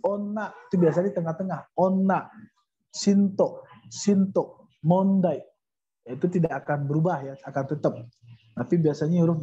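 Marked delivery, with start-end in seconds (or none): 0.0-5.5 "ona" said on-na with a long n; n stays n. Shown as a demonstration. Teacher shows unchanged N, "ona" as on-na. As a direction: hold the n in "ona". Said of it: "bunyinya tetap N".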